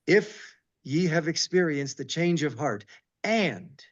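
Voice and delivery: slow, solemn verse reading; scripture reading. Acted. Teacher reading Alma to the class, slow and solemn. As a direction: draw out sing and love.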